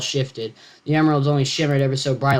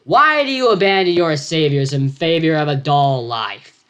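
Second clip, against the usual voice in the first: yelling; 3 semitones higher, 6 dB louder than usual. Acted. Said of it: "Alfred yelped".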